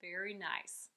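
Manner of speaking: soft whisper; whispered praise. Real, not acted. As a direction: breathe it out as a whispered compliment.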